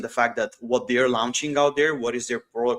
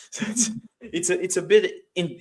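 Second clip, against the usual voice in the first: chuckling as they talk, higher pitch; amused; 7 semitones higher than usual. Real, not acted. Speaker explaining an unintuitive example to webinar listeners, amused. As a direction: let a small laugh lift the words.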